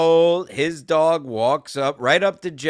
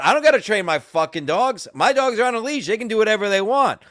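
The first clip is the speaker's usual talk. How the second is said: loud, higher combative rant; angry retort; 6 semitones higher, 5 dB louder than usual. Retold or imitated. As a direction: re-enact arguing back at the owner. Retold shouting match.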